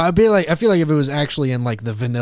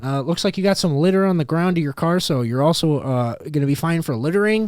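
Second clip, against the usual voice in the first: nerdy officer listing violations; annoying, officious mock policeman; super nerdy cop; 4 semitones higher than usual. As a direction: pile on fines in a raised nerd voice. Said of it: "with the super nerdy voice".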